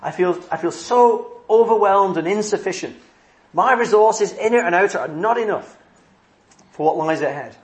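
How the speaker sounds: mild mock panic about the future; overwhelmed wondering. Preacher voicing a believer's fears, lightly anxious. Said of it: "And you just wonder".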